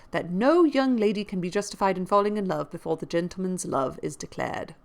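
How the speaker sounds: lively audiobook reading of a classic novel; expressive period-novel narration; story narration. A narrator's reading. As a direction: read the novel aloud with emphatic key words. Reads a novel aloud.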